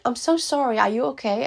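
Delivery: lightly voiced receptionist checking on a caller; concerned assistant. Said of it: "the assistant was like".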